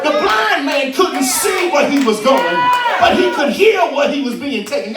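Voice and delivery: rising preacher's call, half-sung; preaching. Acted. Preacher to congregation, swelling into full force.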